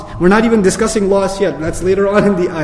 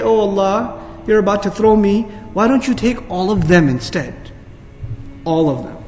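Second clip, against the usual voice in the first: begging plea; 5 dB quieter than usual. Retold or imitated. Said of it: "He will look at all humanity and say".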